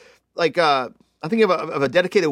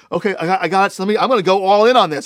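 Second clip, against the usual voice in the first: eager; 4 semitones higher, 5 dB louder, faster than usual. Acted. Peter eagerly changes his mind.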